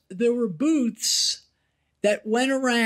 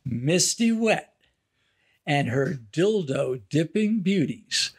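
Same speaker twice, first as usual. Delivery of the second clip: carnival barker; 6 semitones lower than usual. Retold or imitated. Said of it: "carnival barker voice".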